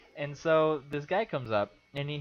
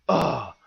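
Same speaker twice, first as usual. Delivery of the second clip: loud, exasperated "ugh"; frustrated groan; 7 dB louder than usual. Retold or imitated. Poll worker imitating a stumped voter, frustrated groan. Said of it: "frustrated with the fact that".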